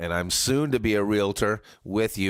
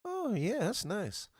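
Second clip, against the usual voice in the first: mock surprise; 14 semitones higher, 5 dB quieter, slower than usual. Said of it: "be like".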